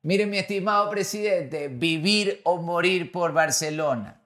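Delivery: slow, drawn-out showman question to the president; slow character voice. Acted. Fusilero character slowly asking the club president on stage. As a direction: drag out each word like a stadium host. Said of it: "En personaje".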